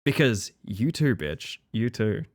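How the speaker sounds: normal talking voice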